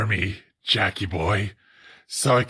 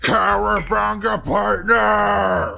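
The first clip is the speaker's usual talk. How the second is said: mock cowboy whoop; 9 semitones higher, slower than usual. Cowboy cry.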